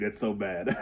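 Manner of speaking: said breaking into a laugh; amused. Real, not acted. Reader mocking their own hard-to-read handwriting, amused. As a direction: let a laugh escape at the end.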